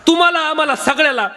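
high declamation in measured phrases; kirtan preaching. Acted. Preacher on all of us keeping the body well, high declamatory preaching. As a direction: lift the voice and intone it to the congregation.

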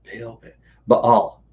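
Baal tried slowly, "ba-al", groping for the sound; Baal, Ba-, Baal sounded out hesitantly; trying pronunciations. Shown as a demonstration. Host trying out the god's name aloud, slowly sounding it. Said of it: "what was the other one".

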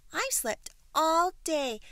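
high, loud little-bird voice; perky baby bird. A narrator's reading. Baby bird explaining to the giraffe, high voice.

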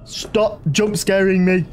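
scared yelling; yelling stop in fright; scared shouting. Real, not acted.

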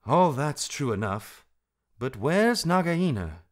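insistent, voice pushed up; impatient. A narrator's reading. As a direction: cut in briskly over the singing. Impatient Rikki interrupts Darzee's song.

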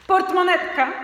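loud, high cry of discovery; excited shout. Acted. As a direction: shout it out as the boy spots the purse. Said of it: "krzyknąłem".

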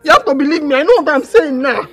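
high, loud, insistent begging; urgent pleading. Acted. Tied-up daughter begging Papa, urgent pleading. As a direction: build from a request into a loud plea.

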